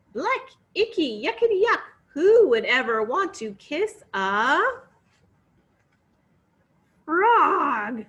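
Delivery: high, loud grossed-out whine; disgusted. Acted. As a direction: sound totally grossed out. Princess disgusted by frog.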